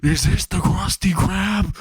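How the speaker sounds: a drawn-out, high shouted prank-call line; screamed. Acted. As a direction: bellow each word of "Krusty Krab" slowly down the phone. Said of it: "and screams".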